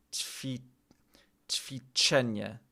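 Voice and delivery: breathy, voiceless run-through of "ćwiczenie"; murmured rehearsal under your breath; whispered practice. Shown as a demonstration. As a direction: whisper "ćwiczenie" slowly to yourself.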